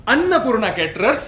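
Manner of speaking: lightly put-on salesman's announcement; marketing pitch. Husband demonstrates marketing at the door, light sales-pitch manner. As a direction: announce the brand to a customer. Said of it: "Annapurna कॅटरिंगचं marketing मी सुरू केलेलं आहे".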